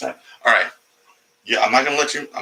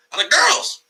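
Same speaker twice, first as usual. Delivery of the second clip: mock falsetto. Mocking straight-man claim.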